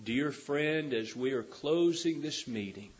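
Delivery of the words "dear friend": ordinary delivery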